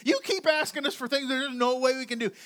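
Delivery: high-pitched exasperated "you"; exasperated disbelief. Acted. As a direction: squeak it out in disbelief. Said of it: "they're probably like".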